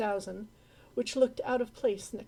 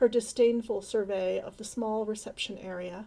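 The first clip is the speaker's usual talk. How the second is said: ordinary delivery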